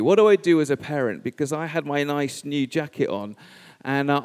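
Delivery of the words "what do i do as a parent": louder, fast flustered self-question; a dad's hurried, worried inner voice; mock panic. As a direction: blurt it out in a rush of parental panic. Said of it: "I was thinking in that moment".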